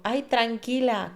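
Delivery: very slow, drawn-out calming; a hint of a nurse settling a patient; soothing nurse. Nurse calming her patient, slow and soothing. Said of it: "y me dijo".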